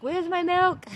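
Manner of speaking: loud, high-pitched mock wail; mock screaming cry. Herself demanding milk like her screaming newborn, mock wail. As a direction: wail it like a hungry baby, hammed up. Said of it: "started to scream and cry".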